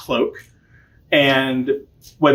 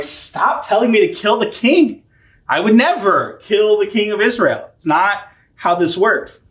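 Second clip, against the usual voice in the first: mock indignation; 5 semitones higher than usual. David refuses to kill the king.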